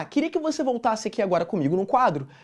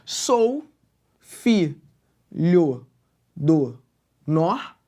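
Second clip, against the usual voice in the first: "Sou filho do nor" in isolated syllables with long gaps; slow dictated syllables of "Sou filho do nor"; syllable-by-syllable scansion; 6 semitones lower, much slower than usual. Shown as a demonstration. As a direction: split "Sou filho do nor" beat by beat, stopping on "nor". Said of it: "Eu paro no for".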